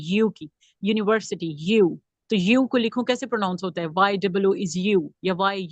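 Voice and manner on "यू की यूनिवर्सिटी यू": "यू, यूनिवर्सिटी" with a clear Y onset; Y-sound demonstration. Shown as a demonstration. Teacher showing which sound it gives, "यू, यूनिवर्सिटी" with audible Y. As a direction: bring out the Y glide in "यू, यूनिवर्सिटी". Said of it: "यू की sound दे रहे हैं".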